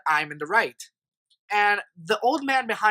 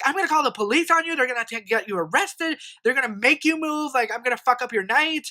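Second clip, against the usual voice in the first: higher-pitched imitation of an irate rant; mock screaming threats; 4 semitones higher than usual. Old man threatening to call the police, mock screaming. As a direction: imitate someone yelling, without full volume. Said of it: "he just starts screaming".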